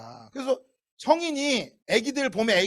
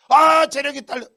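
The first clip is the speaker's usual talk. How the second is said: tired whining; 3 semitones higher, 9 dB louder than usual. Retold or imitated. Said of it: "그러고만 하지 말라고".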